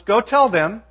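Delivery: a hint of a playful God promising meat; God's party announcement. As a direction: throw it out like a party invitation. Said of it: "here he's telling Moses".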